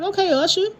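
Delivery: high mocking "Okay, Usher"; mock-sarcastic impression of a castmate; sarcastic quip. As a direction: tease him with a sly high jab. Mimicking DeVal's sarcastic one-liner.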